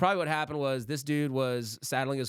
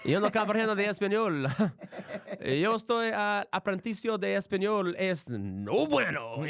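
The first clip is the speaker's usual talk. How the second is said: high, laughing broken-Spanish voice; mock Spanish; 8 semitones higher than usual. Joking about learning Spanish, high laughing mock accent. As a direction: play up the bad Spanish, giggling. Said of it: "I'm trying to learn Spanish too".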